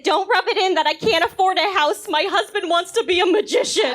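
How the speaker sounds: exasperated mom, half joking; mock wounded retort. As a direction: snap back all offended. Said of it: "And I said".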